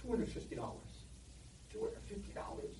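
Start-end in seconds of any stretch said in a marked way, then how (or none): 1.7-2.8 breathy, much higher stunned question; shocked disbelief. Retold or imitated. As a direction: gasp the price back in disbelief. Father shocked at price.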